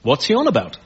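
mock intellectual objection; critical science audience. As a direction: query it like an affronted expert. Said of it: "Whereas to a science audience".

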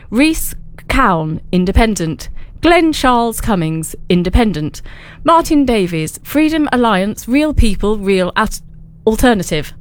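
slow, measured formal news read; serious news voice. Pretend. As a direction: read the list like a solemn newsreader. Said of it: "the most serious news voice that I can".

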